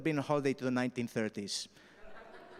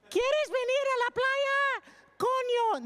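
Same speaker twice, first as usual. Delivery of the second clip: very high, slow comic yell; hammed-up shrieked foreign phrase; louder; 4 dB louder, slower than usual. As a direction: bellow it slowly at someone who doesn't understand. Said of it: "She's getting louder".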